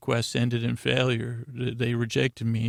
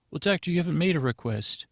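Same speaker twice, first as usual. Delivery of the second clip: lightly acted, higher and quicker reply; institute receptionist; 4 semitones higher, faster than usual. Institute staffer answers doctor's request, lightly acted higher, brisk voice. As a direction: politely correct the doctor, a bit higher and faster.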